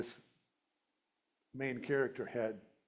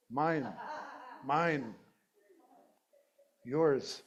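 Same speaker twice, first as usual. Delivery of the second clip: put-on possessive child; 4 dB louder, much slower than usual. Acts out possessive child staking claims.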